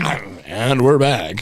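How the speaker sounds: slow drawn-out show host; announcer voice. Retold or imitated. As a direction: drag it out like a radio host. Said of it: "I was like".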